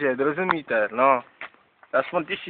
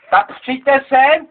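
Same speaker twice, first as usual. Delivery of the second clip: slow, drawn-out higher call; slow raised call to come over; 5 semitones higher, 3 dB louder, much slower than usual. Real, not acted. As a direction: beckon them over slowly. Calling the police over.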